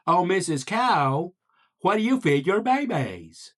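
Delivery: wide-open mouth, stretched vowels; goofy frog asking with exaggerated enunciation; big-mouthed frog. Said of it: "there was a big-mouthed frog".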